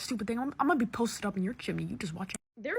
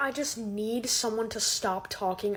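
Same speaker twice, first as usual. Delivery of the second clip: usual speaking voice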